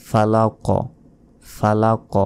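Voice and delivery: ফালাক with a bounced, echoing final k; ফালাক ending in qalqala; qalqala bounce. Shown as a demonstration. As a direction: knock the last k of ফালাক. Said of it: "শেষে ধাক্কা দিয়ে পড়তে হবে".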